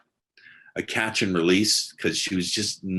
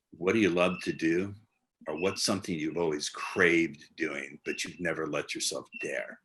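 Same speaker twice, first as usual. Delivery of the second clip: slow seductive question. Shown as a demonstration. Coach demonstrating the better question to the listener, slow and intimate. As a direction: draw her in with a slow, intimate pace. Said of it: "So listen to this question".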